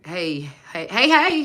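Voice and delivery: excited hey. Real, not acted. Greeting a live chat viewer, excited calls.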